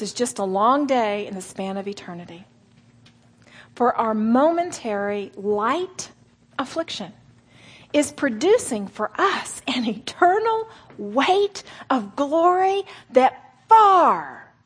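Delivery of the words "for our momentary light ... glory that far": slow, swelling then fading verse; dramatic scripture reading. Acted. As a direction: read it like a solemn promise.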